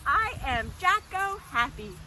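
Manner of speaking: high, loud, cheery chant; happiest pretend voice. Shown as a demonstration. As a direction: proclaim it with exaggerated happiness for children. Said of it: "your happiest face and your happiest voice".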